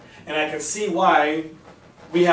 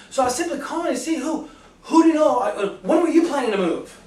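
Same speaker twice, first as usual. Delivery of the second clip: upbeat, pitched-up sales pitch; high-energy cold call; 5 semitones higher than usual. Shown as a demonstration. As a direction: sell it with big energy and enthusiasm. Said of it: "like I've just demonstrated with you right".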